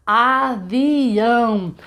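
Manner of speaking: "Avião" bem devagar, a-vi-ão; sílabas marcadas. Shown as a demonstration. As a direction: silabe "Avião" abrindo a boca. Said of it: "quantas vezes eu abro a boquinha pra dizer avião". ("Avião" silabado devagar)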